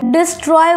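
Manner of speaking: "डिस्ट्रॉय" split by a pause after "डिस"; pause mid-word. Shown as a demonstration. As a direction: break "डिस्ट्रॉय" into two beats, डिस, then ट्रॉय. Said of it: "एक बार pause लेना पड़ता है बीच में".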